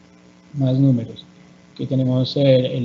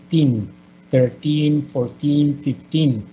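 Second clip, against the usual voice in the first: put-on thirteen, fourteen, fifteen with weight on teen; stress on teen; much slower than usual. Shown as a demonstration. Profesora marcando el acento en teen. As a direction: punch the teen ending. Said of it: "Tenemos que hacer la, la pronunciación al final".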